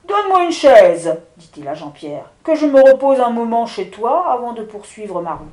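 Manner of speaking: wind spirit. Acted. The wind giant speaks.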